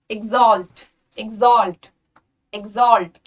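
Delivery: exalt said as "ig-ZOLT", falling; crisp model "exalt" with a g-z sound. Shown as a demonstration. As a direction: voice the x in exalt as a buzzing gz. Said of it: "जी और जेड का sound आता है".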